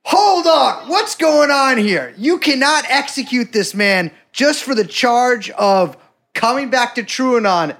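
high, hammed-up courtroom objection; American lawyer. Host defending guest Tom in a mock trial, outraged American lawyer. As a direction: burst in like a lawyer halting an execution. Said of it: "I'm your American lawyer".

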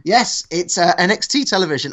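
put-on half-hearted Black Country accent. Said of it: "I'm not carrying on with the accent".

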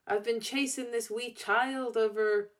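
shaky attempt at a Scottish accent. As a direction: quote it in an amateur Scottish accent. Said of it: "I can't do the accent".

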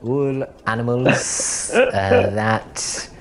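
teasing mock voice of a friend; mocking impression of Joe. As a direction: drag it out like a dopey caricature of your co-host. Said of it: "I don't even know what that accent was supposed to be".

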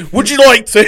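high, loud, giggling through it; laughing mock offer. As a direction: tease as a cheeky chat-up line. Mock pickup line, laughing.

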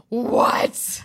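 high breathy mock gasp of "what"; amazed outcry. Teenagers hearing the Long Island Medium is coming, amazed outcry. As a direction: imitate a roomful of starstruck teens.

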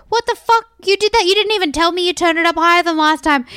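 indignant complaint to the technician, replayed; high-pitched outraged retelling; mock outraged.

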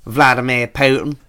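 Vladimir Putin in a broad Norfolk accent. Shown as a demonstration. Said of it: "good word to say with a Norfolk accent".

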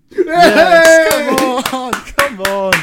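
high, very loud victory cheer; triumphant shout. Real, not acted. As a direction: yell in celebration of a win. Wins the coin toss.

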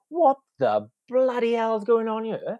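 high, loud, slowed alarmed cry; panicked mock shout; shocked outburst. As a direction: blurt it out in alarm. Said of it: "I'm just like".

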